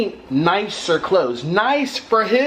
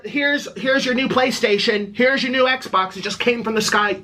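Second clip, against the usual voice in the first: higher, gushing mock announcement of free gifts; mock gift from the sky; 4 semitones higher than usual. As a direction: hand out free consoles like magic falling from the sky. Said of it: "just poof, midair".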